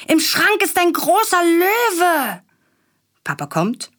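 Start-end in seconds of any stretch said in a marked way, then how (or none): 0.1-2.4 put-on high, slow little boy voice; scared child. A narrator's reading. Willi calling to Papa about a lion, high child voice. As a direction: tell it wide-eyed like a child afraid of the closet.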